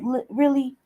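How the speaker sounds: normal talking voice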